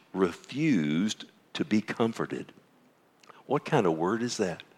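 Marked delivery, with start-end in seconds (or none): 0.1-2.5 soft, slow, letting it sink in; hushed and slow. Shown as a demonstration. Pastor reading Asaph's lament to the congregation, hushed and slow. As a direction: drop to near-whisper on refused to be comforted.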